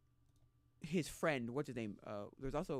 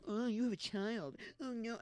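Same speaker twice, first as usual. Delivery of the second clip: higher, slower, put-on gasp of shock; mock shocked coworkers; 9 semitones higher, slower than usual. Coworkers reading Fantine's letter, in a mock shocked voice. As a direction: play the scandalised coworkers. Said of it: "They read it and go".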